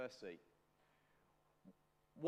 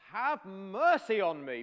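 shouted plea; 5 semitones higher, 10 dB louder than usual. Retold or imitated. Bartimaeus calling to Jesus as he passes, loud pleading shout. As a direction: call out over a crowd, stretching the plea. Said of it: "he shouted out".

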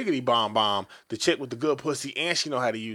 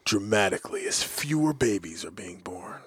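low breathy whisper, much softer; dramatic whisper; 7 semitones lower, 8 dB quieter than usual. Acted. Reading the birth-rate news to cohosts, dramatic whisper. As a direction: whisper it like a grim documentary. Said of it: "I changed my voice for that".

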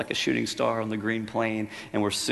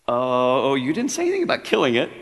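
much higher, fast and flustered; alarmed ghost; 4 semitones higher, 9 dB louder than usual. Acted. Ghost protests the angel's offer to kill, alarmed. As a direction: panicky protest, words tumbling out.

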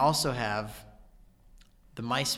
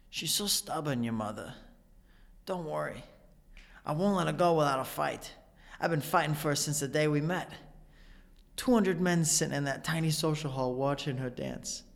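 Walken monologue; 3 semitones higher than usual. Retold or imitated. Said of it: "here is my favorite Chris Walken line".

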